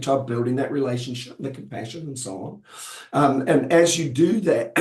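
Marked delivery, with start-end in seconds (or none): 3.1-4.7 hoarse, losing voice, slow; strained, fading hoarse voice. Real, not acted. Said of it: "I'm losing my voice again".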